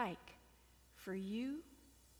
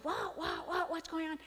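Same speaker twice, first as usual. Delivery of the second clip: bewildered sheep lion; 6 semitones higher than usual. Acted. Sheep lion sees his reflection.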